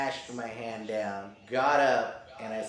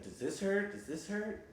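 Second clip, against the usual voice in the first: high doctor voice; 9 semitones higher, 5 dB quieter than usual. Retold or imitated. Doctor quoted.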